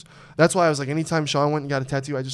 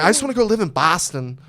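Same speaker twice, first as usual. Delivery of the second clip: lightly put-on Boston accent, pitched up; 3 semitones higher, 4 dB louder than usual. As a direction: do a punchy, hammed-up Boston accent. Accent joke after talk of regional accents.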